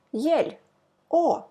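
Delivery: short clipped Russian o. Shown as a demonstration. Teacher showing the Russian o sound. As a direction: say o short with no glide. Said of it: "But in Russian".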